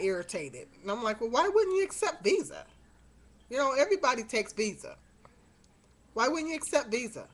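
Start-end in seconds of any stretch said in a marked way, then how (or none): 1.2-7.3 indignant, pitch jumps up at the start; mild mock indignation; retold attitude. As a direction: challenge the cashier, put out. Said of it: "I just instantly got an attitude".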